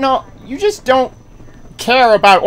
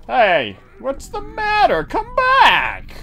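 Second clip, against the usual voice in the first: teasing call; 4 semitones higher, slower than usual. Real, not acted. Teasing a fleeing enemy.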